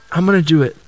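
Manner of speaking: firm decision; decide it firmly; determined. Pretend. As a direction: resolute acceptance. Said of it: "And he's like".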